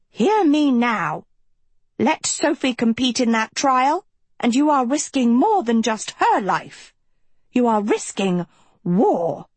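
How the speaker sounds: high, cold threatening voice; cold villainous headmistress. A narrator's reading. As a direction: menace them with icy contempt. Lady Lesso threatens the faculty.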